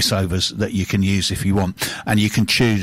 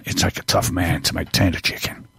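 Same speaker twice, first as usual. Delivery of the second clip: a touch lower, a hint of a gruff cowboy; lightly gruff Texan cowboy; 4 semitones lower than usual. Retelling the Texan's TV ad, a mildly gruff cowboy line. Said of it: "he was this really gruff cowboy type".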